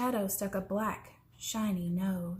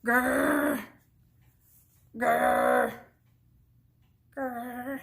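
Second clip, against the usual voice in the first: three bear growls; 4 dB louder, much slower than usual. A narrator's reading. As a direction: growl like three different bears.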